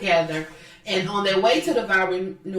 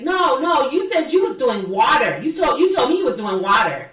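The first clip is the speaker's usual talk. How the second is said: high, bratty back-and-forth whine; mock childish insisting; 4 semitones higher, 4 dB louder than usual. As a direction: imitate her badgering like a kid. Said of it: "talks like she's a na, na".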